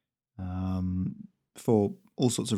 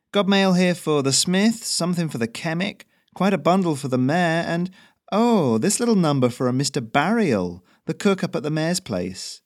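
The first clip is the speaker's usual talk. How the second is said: high, bright courier voice, louder; chirpy messenger reading the mail; Ferrino's voice; 7 semitones higher, 4 dB louder than usual. Acted. Messenger checks the mail, high and lively.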